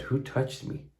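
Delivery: soft whispered Jesus; whispered question. Acted. Jesus asking the crowd, in a soft whisper. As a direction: ask it in a hush.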